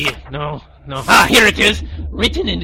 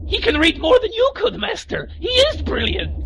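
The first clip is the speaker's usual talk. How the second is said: Igor voice; 14 semitones higher than usual. Acted. Igor praises the robot.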